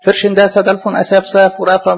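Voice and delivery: names rattled off back to back; demonstrating a reader racing through names; rapid run-on reading. Shown as a demonstration. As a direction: recite the list quickly without stopping. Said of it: "يروح قاري العشر أسامي دول ورا بعض".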